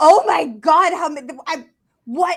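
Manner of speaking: sudden high, loud yell, very slow and drawn out. Retelling how Jeremy suddenly yelled while editing: imitating Jeremy yelling. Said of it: "he just kinda yells".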